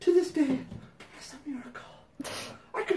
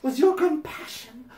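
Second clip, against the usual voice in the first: higher, slow-starting prim letter-writer voice, half laughing; hammed-up letter voice; 3 semitones higher, 5 dB louder, slower than usual. Reading the letter to Patty, hammed-up prim voice. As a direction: read it like a sanctimonious fan pouring her heart out. Reads fan letter aloud.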